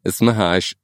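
ordinary talk

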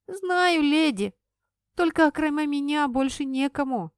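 put-on a little boy sobbing about his mother. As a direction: cry it out, nobody else can do it. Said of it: "всхлипнул малыш".

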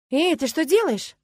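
loud, high cry of protest; startled exclamation. A narrator's reading. Roommate catching her friend taking the bouquet, exclaiming. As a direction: call out sharply to stop someone. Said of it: "воскликнула Агнеса".

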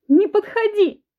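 high, loud shriek. A narrator's reading. Wife shrieks as she runs from the husband. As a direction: shriek and run. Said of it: "Взвизгнув".

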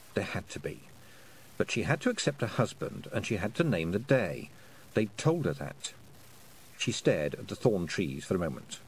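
usual speaking voice

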